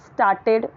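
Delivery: "स्टार्टेड" with the R left silent; "स्टार्टेड" with a long open aa and unvoiced R; correct pronunciation of started. Shown as a demonstration. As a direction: say "स्टार्टेड" as staa-ted, no R sound. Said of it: "उसको बोलेंगे".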